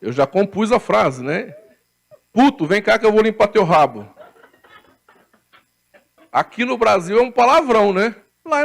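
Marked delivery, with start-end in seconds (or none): 2.3-4.1 laughing through the line. Pretend. Preacher laughing at his own Portuguese phrase. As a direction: giggle through the made-up phrase.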